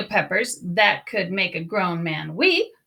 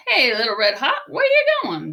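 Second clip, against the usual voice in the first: cowboys calling out. Acted. Cowboys call out.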